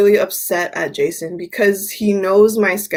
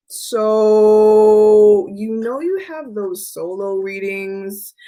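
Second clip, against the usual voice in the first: imitating Jason; much slower than usual. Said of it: "And he's like".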